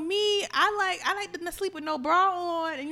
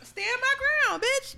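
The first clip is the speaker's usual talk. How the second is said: mock tough; 10 semitones higher than usual.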